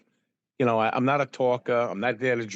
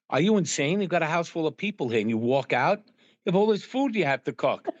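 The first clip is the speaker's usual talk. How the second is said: higher-pitched incredulous outburst, retold; mock freak-out; 5 semitones higher than usual. Family to host who walked out on dinner, mock freak-out. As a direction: imitate relatives freaking out at you. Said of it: "were freaking out".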